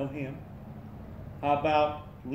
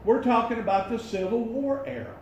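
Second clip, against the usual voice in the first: higher-pitched, insistent explaining; raised voice; 6 semitones higher than usual. Real, not acted. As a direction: raise your voice for someone hard of hearing. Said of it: "You're screaming".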